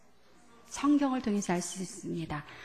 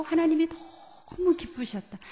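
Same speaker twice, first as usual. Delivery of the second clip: 너무 stretched long, pitched higher; stress on 너무; 6 semitones higher than usual. Shown as a demonstration. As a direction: draw out 너무 for great joy. Retells God's great joy.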